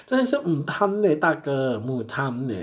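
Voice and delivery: wag a finger at the big brother; playful scolding. Pretend. Telling the customer off, teasing scold.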